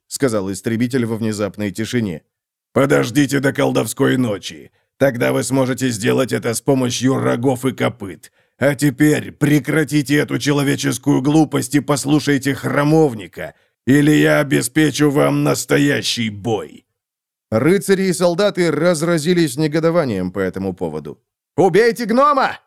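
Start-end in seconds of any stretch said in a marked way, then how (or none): 2.7-16.8 a hint of a grim dwarf's voice; lightly voiced menacing dwarf; dwarf slayer. Gotrek warning the lords, lightly voiced dwarf. 21.5-22.6 much higher angry shout. Acted. A soldier shouting to kill the dwarf, high. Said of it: "крикнул один".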